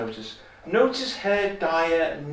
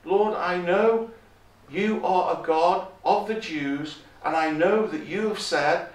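pleading; 3 semitones higher than usual. Acted. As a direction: draw out the words in a measured appeal. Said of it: "It's almost like she's pleading".

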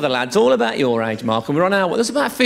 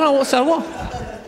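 mock bored retort; 9 semitones higher, much slower than usual. Mock quote of a bored listener.

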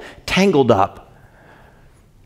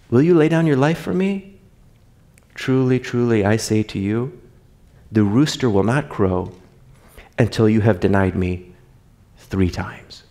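solemn Jesus; 3 semitones lower, 3 dB quieter than usual. Acted. Jesus' solemn reply voiced.

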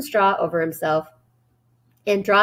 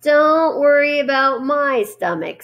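higher, louder snarling rat; 7 semitones higher, 4 dB louder, slower than usual. A narrator's reading. Templeton snarls at Charlotte, higher and louder. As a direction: snap back at her slowly. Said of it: "snarled Templeton".

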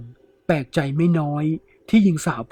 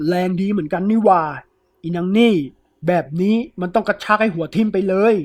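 louder, higher, with effort; straining angry; 4 semitones higher, 4 dB louder than usual. Acted. Thief yanking the woman's arm, loud and straining. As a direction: grunt it out while pulling hard.

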